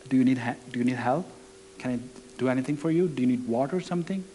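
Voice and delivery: soft, quick, hushed concern; hushed and hurried, checking on a crying stranger; gentle quiet offer. Retold or imitated. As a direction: ask softly so as not to intrude. Asking crying woman if she needs help.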